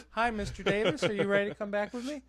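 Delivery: high, bright customer-service voice; sing-song front desk greeting; polite receptionist. Retold or imitated.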